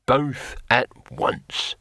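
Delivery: slow, emphatic addition; drawn-out defiance; bold challenge. A narrator's reading. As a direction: land each word as a dare. Hero challenges both brothers.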